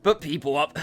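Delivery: put-on accidental French-accented slip; bad French accent. Hostess character confiding, accidental bad French accent. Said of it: "bad French accent came out for a sec".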